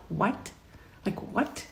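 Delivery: stunned, barely voiced questions; retold quiet bewilderment; hushed disbelief. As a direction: breathe out the shock very softly. Stunned reaction to being fired.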